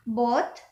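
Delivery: "both" with a brief O; short O. Shown as a demonstration. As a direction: keep the vowel of "both" short. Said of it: "this is for short O".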